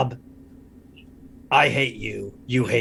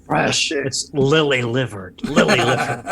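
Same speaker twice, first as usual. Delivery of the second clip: loud; 4 semitones higher, 6 dB louder than usual. Acted. In-character boss teaching catchphrase.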